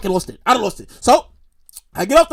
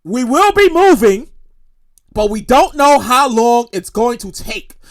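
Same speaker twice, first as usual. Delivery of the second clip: slow, measured conductor's announcement; imitated conductor announcement; 3 semitones lower, slower than usual. Conductor telling riders of delay, slow mock announcement. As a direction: spell it out slowly like train staff. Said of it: "the conductor says exactly like this".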